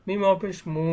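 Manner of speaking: মু held long for one alif; lengthened oo sound on মু; long মু vowel. Shown as a demonstration. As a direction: spell it out, then stretch মু into a long moo. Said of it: "দীর্ঘ করিয়া পড়ব".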